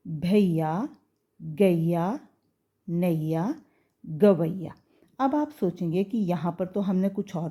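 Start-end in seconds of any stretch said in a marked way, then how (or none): 0.1-4.7 भैया, गैया, नैया, गवैया with a gliding "a-i"; a-i glide. Shown as a demonstration. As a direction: model each slowly as "bha-i-ya", "ga-i-ya". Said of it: "तो हम इसको कैसे पढ़ेंगे". (भैया, गैया को "भइया, गइया" जैसा बोलें)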